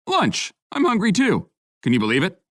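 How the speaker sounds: high, bright-eyed gushing greeting; excited friend. A narrator's reading. Reggie thrilled to bump into friends, high excited voice. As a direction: squeal with delight at seeing friends.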